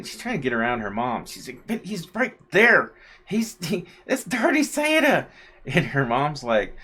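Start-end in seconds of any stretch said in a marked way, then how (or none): 1.7-5.3 put-on a kid pointing and insisting; insistent little girl. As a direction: toddler insisting to her mom he's right there.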